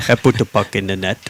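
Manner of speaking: mock Canadian accent, only lightly done; a touch of a Canadian accent, tongue in cheek. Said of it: "Do it in your best Canadian voice".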